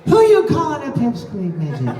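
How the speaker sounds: trailing off at the end, imitating; lightly mimicked weak finish; imitating a fading line. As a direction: let the end die away. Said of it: "you kinda died out at the end".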